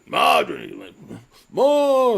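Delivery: loud, high mock sitcom call of Raymond; Raymond family yelling. Mocking a sitcom family calling across the house, loud and high. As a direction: ham up a sitcom mother calling her son. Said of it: "He's like".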